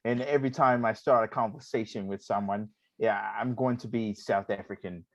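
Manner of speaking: lightly put-on South African accent; casual attempt at a South African accent. Shown as a demonstration. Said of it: "stick with this South African accent".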